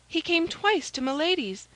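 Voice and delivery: high maid's voice, informing; anxious maid Kitty. A narrator's reading. Maid reporting the spy's visits, anxious and high.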